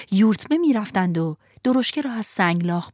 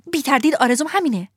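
put-on eager boy; 6 semitones higher, faster than usual. Lampwick answers eagerly.

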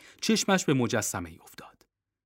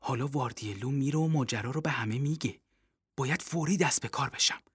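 thinking aloud; 3 semitones lower, 6 dB quieter, faster than usual. Acted. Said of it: "پیش خودش گفت".

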